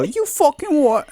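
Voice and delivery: very high, slow, loud laughing What; mock disbelief with a laugh; outraged squeal. Mocking co-host's outraged reply, squealed. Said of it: "You go".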